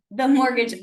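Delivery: chewing gum. Real, not acted. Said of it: "I have gum in my mouth".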